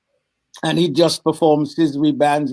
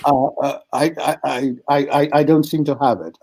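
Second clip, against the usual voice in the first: nervous stammer. Retold or imitated. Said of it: "And I'm going".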